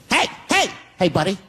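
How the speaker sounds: a bouncer scolding a customer about his hat; yelling bouncer. Retold or imitated. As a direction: scold like a strict club bouncer. Started yelling at me.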